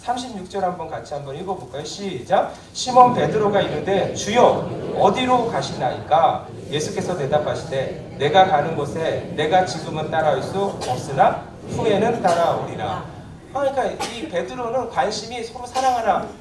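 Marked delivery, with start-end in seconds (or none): 2.7-13.2 loud, slow group Bible reading; slow and loud recitation of a Bible passage; scripture reading. Acted. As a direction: read the verse out together, measured and loud. Congregation reads scripture aloud.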